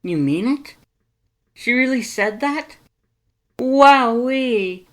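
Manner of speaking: very high, loud, thrilled shout; overjoyed Papyrus. Acted. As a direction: burst out with delight.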